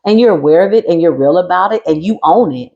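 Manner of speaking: telling off an open-faced asshole; mock calling out. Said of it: "At least I could say".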